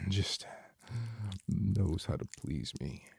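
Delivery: breathy, moaning intimate voice throughout; sensual erotic roleplay. Acted. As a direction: murmur it like a lover lost in pleasure.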